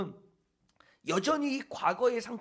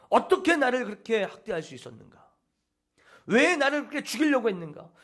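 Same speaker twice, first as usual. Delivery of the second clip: retold angry outburst; 2 semitones higher, 4 dB louder than usual. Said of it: "소리를 지르면서 막 폭발을 했다고".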